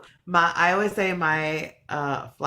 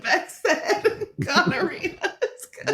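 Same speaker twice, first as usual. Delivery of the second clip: mock gossip; 12 semitones higher than usual. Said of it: "They're gonna be like".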